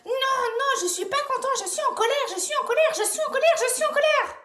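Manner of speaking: high, chanted mock tantrum; pretend anger. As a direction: stamp it out like a child playing furious. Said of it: "on va tous être en colère".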